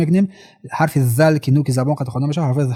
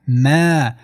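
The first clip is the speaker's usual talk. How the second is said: two-count stretch. Shown as a demonstration. Teacher showing the madd in ما, vowel held. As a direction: hold the long ā in ما.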